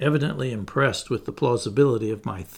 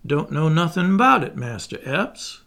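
feigned ignorance; 3 semitones higher than usual. Acted. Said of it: "assuming an air of ignorance and surprise".

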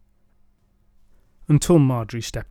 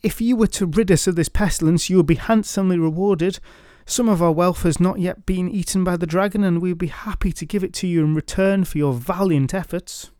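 coaxing townsfolk; 5 semitones higher than usual. Acted. Townsfolk offer reward.

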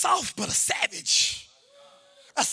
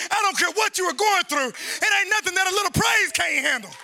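raised, sustained preacher's delivery; forceful preaching; 6 semitones higher, 4 dB louder than usual. Real, not acted. Preacher urging praise whatever they go through, forceful preaching. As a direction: drive it home to the congregation.

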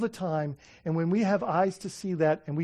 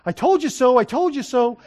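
louder, higher retold crowing; excited mother; 5 semitones higher, 7 dB louder than usual. Excited mother crowing over her son, exclaiming. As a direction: imitate a mother exclaiming in triumph. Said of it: "So she's all excited".

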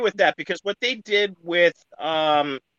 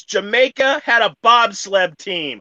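put-on Jamaican accent; 5 semitones higher than usual. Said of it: "a white guy doing a Jamaican accent".

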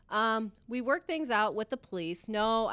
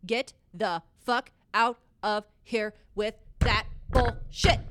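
mock angry; 5 dB louder, slower than usual. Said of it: "Then he says".

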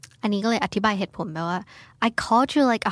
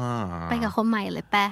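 mild sulk; 2 semitones lower, slower than usual. Retold or imitated. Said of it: "อาจจะงอนอยู่แบบ".

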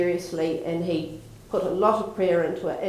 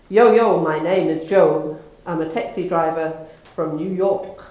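put-on New York accent; 6 dB louder than usual. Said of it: "He responds with a thick New York accent".

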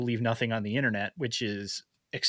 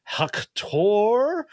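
hype announcement; 8 semitones higher, 5 dB louder than usual. Acted. Host hypes co-host introduction.

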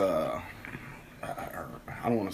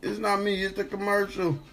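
high-pitched indignant whine; high, baffled self-defense; indignant protest; 12 semitones higher than usual. Acted. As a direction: protest innocence in a high squeaky voice. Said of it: "I'll be like".

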